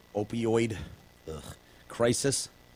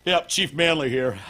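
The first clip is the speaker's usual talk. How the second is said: higher and louder, announcing himself; mock police chief; 5 semitones higher, 5 dB louder than usual. Host plays the chief answering the bomber, loud and hearty. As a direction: ham up the chief introducing himself.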